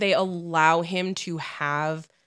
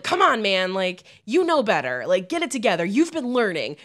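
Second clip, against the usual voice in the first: mock-exasperated coaxing, climbing higher; pleading pep talk; 6 semitones higher than usual. Viewer urging the prince not to blow it, playful pleading. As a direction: plead with him, rising as you go.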